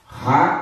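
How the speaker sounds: Rainha split as ra... i... nha; syllable by syllable. Shown as a demonstration. Teacher shows the I before NH, Rainha broken into syllables. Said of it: "O I tá na sílaba tônica".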